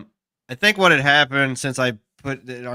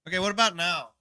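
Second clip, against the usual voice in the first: tinny voice; 3 semitones higher, faster than usual. Real, not acted. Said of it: "You sound, like, tinny".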